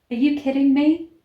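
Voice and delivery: loud, rising disbelief; can't believe what you just read; incredulous. Real, not acted. Reacting to absurd book.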